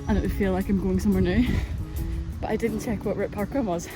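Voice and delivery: walking uphill while talking. Real, not acted. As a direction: talk on the move, a bit breathless. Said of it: "I'm gonna have to walk while I talk".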